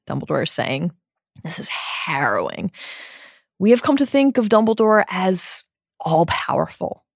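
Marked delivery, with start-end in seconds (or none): 1.4-2.7 hushed, breathy whisper. Real, not acted. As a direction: whisper it, shaken. Reacting to a dark scene.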